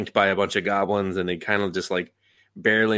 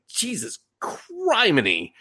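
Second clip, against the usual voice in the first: jesus criminy; 10 semitones higher, slower than usual. Retold or imitated. Shocked reaction to grim backstory.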